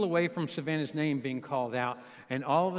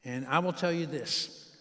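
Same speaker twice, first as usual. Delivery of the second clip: a dad talking; 2 semitones lower than usual. Real, not acted. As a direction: speak gently as the bride's father. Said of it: "That's a dad talking".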